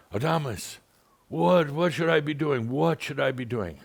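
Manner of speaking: hammed-up panic; frantic plea. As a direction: act her frenzy, high and urgent. Frantic caller quoted.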